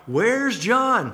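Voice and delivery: not quite cheering, but eager; excited crowd member. Acted. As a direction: call out as one of an eager crowd. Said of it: "They're not quite cheering".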